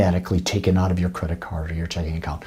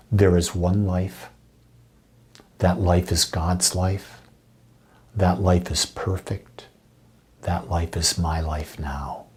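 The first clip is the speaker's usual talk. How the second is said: heartfelt affirmation. Shown as a demonstration. Minister shares a favourite affirmation with listeners, heartfelt and measured. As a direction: say each phrase as a felt truth, pausing between. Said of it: "say it with feeling".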